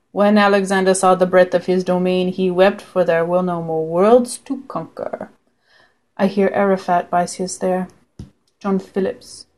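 lightly imitated film villain; Alan Rickman. Fan quoting a favourite villain, light impersonation. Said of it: "I could just sit here and quote Alan Rickman".

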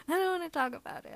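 fast, embarrassed blurt; flustered rush. Acted. Embarrassed, fast first take.

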